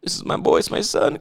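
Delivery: whisper. Acted. Movie quote acted.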